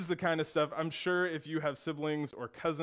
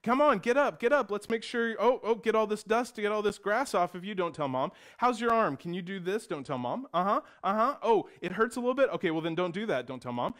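hurried, fussing, louder and higher; fussing big brothers; 5 semitones higher, 5 dB louder, faster than usual. Retold or imitated. Older brothers fussing over hurt brother, hushing about mom. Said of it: "And they say".

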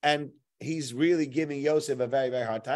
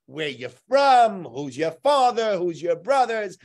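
mocking the viceroy's questions; slow angry interrogation; 5 dB louder, slower than usual. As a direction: fire the questions one by one in anger. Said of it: "He also says".

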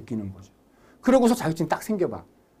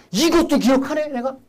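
high pleased voice, dropping at the end; mock self-praise of a student; student's glee; 7 semitones higher, 3 dB louder than usual. Teacher voicing a student pleased at remembering a formula.

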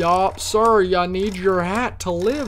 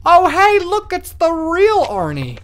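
a cheery high greeting voice, much louder; high excited greeter; 12 semitones higher, 7 dB louder, slower than usual. Acted. Border guard greeting Arnie in a high, loud, excited voice. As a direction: perk right up as if spotting a celebrity.

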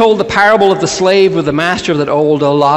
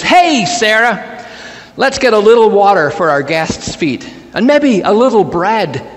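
calling to wife; 6 semitones higher than usual. Acted. Abraham asks Sarah for water for guests, calling out. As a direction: call over to your wife, pitched up.

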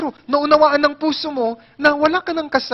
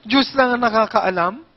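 exasperated repeat. Retold or imitated. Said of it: "Dalawang oras akong nagsayang ng laway".

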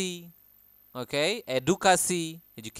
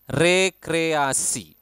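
whisper; 4 dB louder, much slower than usual. Shown as a demonstration.

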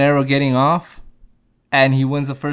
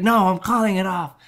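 trainer voice; 6 semitones higher than usual. Retold or imitated. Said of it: "He's like".

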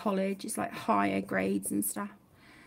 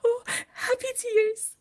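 imitating daughter; 11 semitones higher than usual. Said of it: "She's like".

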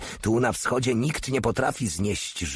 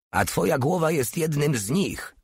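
spiteful growl; 8 semitones higher than usual. A narrator's reading. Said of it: "warczy złośliwie Porta".

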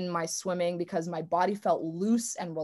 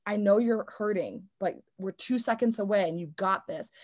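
kind self-talk. Retold or imitated. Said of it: "Or you could be like".

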